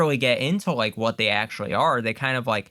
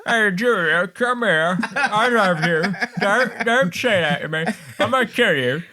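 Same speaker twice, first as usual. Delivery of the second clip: loud, high, hammed-up Cockney accent; mock Cockney; 6 semitones higher, 4 dB louder than usual. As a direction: ham up movie lines in broad Cockney. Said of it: "these characters in a Cockney accent".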